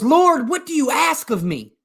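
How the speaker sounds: high-pitched appeal to heaven; acted pleading call. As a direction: play the hiker calling up to the Lord. Hiker calls up to the Lord.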